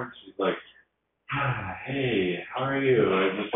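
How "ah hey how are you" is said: a weary sigh on ah, then a higher how are you; sighing greeting. Retold or imitated. Teacher greeting a student she sees as a slacker, sighing. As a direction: greet him as if he's a letdown. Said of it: "give me a sigh".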